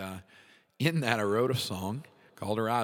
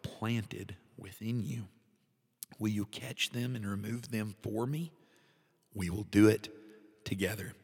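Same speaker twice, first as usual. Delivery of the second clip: the Lord's tender plea. Acted. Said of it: "the Lord refers to 'em".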